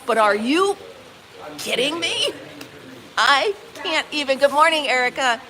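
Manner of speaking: usual speaking voice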